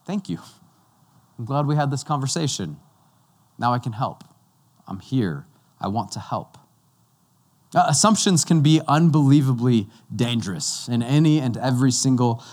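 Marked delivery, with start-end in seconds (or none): 0.1-6.6 gentle God. Pretend. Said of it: "He said".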